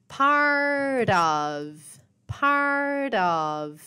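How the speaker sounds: "part of" run together as one word, the t linked into "of"; linking sound. Shown as a demonstration. Teacher shows students the linked "part of", smoothly joined. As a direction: glide "part of" into "partof", no break between them. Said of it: "Olhem o linking sound".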